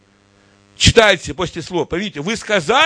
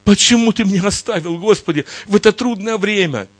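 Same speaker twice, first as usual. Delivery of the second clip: high, anguished cry to the Lord; a scared man calling out to God; frightened plea; 4 semitones higher than usual. Acted. A frightened man begs God on the beach, high anguished cry. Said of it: "Он испугался и говорил".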